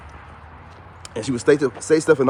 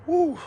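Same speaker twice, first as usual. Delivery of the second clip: cold exhale whew. Real, not acted. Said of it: "it gets colder up here".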